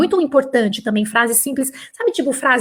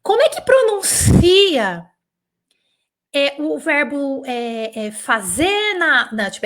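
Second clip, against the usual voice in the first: whiny student. Retold or imitated. Teacher mocks a student asking how to pronounce, whiny. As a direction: drag it out like a lost, lazy student. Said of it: "vem pra mim e fala assim".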